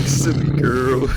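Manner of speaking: high sassy quip, drawn out slowly; sassy drag queen. Retold or imitated. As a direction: camp diva tease. Quoting drag video line.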